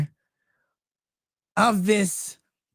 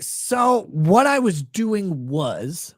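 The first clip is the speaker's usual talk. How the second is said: sheepish husband; much slower than usual. Retold or imitated. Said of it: "And he's like".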